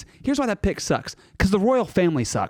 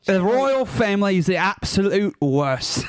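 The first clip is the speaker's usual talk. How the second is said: slow, hammed-up British accent; shaky stab at a British accent, drawn out; attempted British accent; slower than usual. Shown as a demonstration. Panelist on a dare attacking the royals, clumsy British accent. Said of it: "in a British accent".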